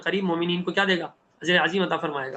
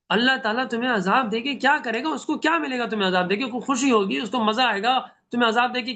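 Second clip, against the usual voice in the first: pleading gently; 5 semitones higher than usual. Acted. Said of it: "بڑے پیار سے سمجھا رہے ہیں".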